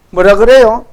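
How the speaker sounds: ordinary talk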